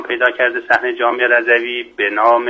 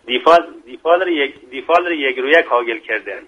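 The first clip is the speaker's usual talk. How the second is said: dialect proverb in Mashhadi Persian accent; 3 semitones higher than usual. Shown as a demonstration. Guest offering another local proverb, Mashhadi accent. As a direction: quote the saying as a Mashhad local would.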